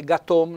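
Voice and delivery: "gatom" with a closed O; stressed tight O in "gatom"; closed accent. Shown as a demonstration. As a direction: model GATOM slowly, final O closed. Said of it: "accento chiuso".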